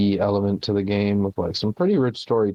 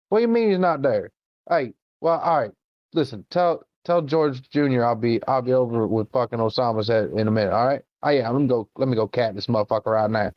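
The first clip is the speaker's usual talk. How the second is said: put-on drunk redneck; 2 semitones higher than usual. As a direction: brag like a hillbilly promising a trophy. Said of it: "could you imagine being a drunk redneck".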